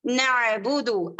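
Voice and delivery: नअबुदु with a clear ain after the first syllable; correct recitation. Shown as a demonstration. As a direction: model नअबुदु slowly and exactly. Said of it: "ये पढ़ना है आपको सही".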